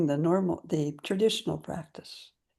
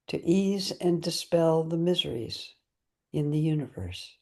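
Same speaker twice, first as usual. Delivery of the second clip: unhurried, evenly intoned dedication; recited prayer. Real, not acted. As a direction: recite a solemn vow phrase by phrase.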